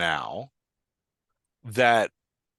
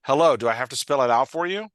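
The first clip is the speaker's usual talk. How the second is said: louder, pointed sarcastic question; mildly aggressive, exasperated rise; more aggressive tone; 3 semitones higher, 5 dB louder than usual. Acted. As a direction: lean hard on HELLO, end on a challenge. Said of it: "kind of more aggressive tone".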